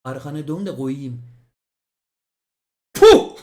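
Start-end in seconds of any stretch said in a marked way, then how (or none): 2.9-3.4 burst of laughter. Real, not acted. Bursts out at the title.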